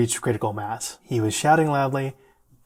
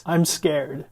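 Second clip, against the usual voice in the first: retold fear, only slightly raised; mildly acted scared patient; 3 semitones higher than usual. Distressed patient to his friend in the ER, mildly scared. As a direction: voice a scared patient, still restrained. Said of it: "this poor guy is yelling".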